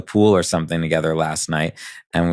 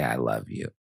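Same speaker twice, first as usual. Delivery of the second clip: hushed; 8 semitones lower, 10 dB quieter than usual. Retold or imitated. Saying the taboo phrase.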